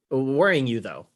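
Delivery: "worrying" emphasized as a mirrored word; stress on WORRYING. Shown as a demonstration. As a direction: lean on "worrying", then let the phrase fall. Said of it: "I emphasize worrying".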